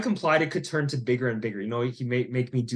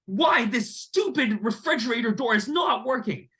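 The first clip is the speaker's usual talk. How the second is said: angry outburst; 11 semitones higher than usual. Retold or imitated. Narrator yelling at a fridge door that won't work, in a high, furious retold outburst. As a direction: blow up at the broken fridge door. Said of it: "I finally exploded".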